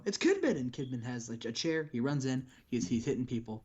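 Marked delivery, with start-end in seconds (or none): 0.0-0.6 high, loud announcer shout of a name; excited announcer call. Retold or imitated. Commentator hyping the crowd, a high excited shout. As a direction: yell it like a commentator losing it. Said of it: "And they go".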